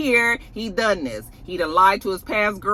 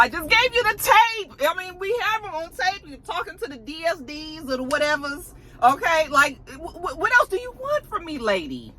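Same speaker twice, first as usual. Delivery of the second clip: shaky voice; 10 semitones higher than usual. Retold or imitated. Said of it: "the voice is starting to shake".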